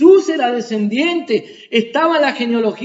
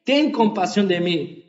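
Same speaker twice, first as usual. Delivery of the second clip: louder plea, rising on Jesús; pleading cry; 4 dB louder than usual. Retold or imitated. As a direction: call out to the king for mercy. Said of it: "el ciego comenzó a decir". (el ciego suplica al rey en voz alta)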